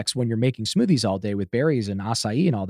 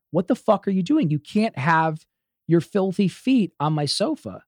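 high-pitched retold telling-off; raised voice; 8 semitones higher, 3 dB louder than usual. Scolding her for filthy feet on the sofa, raised voice. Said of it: "I said it a third time".

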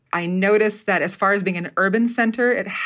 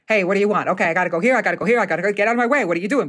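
New York directness; much faster than usual. Shown as a demonstration. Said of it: "Like, it would be like".

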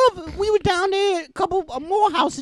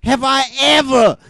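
shrill overlapping reality fight; 5 semitones lower than usual. Acted. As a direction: shout it down at him.

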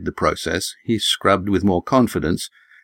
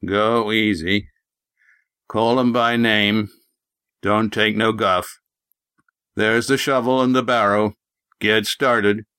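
put-on slow, scornful old farmer voice; old prospector; slower than usual. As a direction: grunt the orders out slowly. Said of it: "Jeb grunted scornfully".

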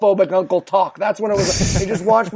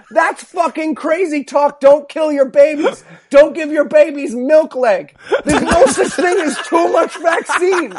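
imagined doctor's outburst; 6 semitones higher than usual. Retold or imitated. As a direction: hammer it home like an outraged doctor. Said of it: "been like".

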